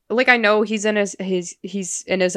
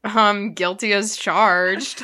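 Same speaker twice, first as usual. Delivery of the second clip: shy admission; 4 dB louder, much slower than usual. Retold or imitated. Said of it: "getting all quiet and shy".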